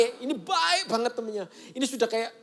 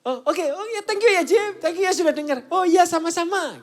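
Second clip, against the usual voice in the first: very high, loud thank-yous; grateful thanks; 10 semitones higher, 6 dB louder than usual. Retold or imitated. Friend thanking the pastor for listening, high and gushing. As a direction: gush with relief and thanks.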